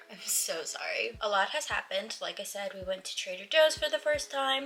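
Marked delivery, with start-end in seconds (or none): 0.1-1.2 soft breathy sorry; whispered apology. Real, not acted. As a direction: whisper it under your breath. Apologising for tripping on words.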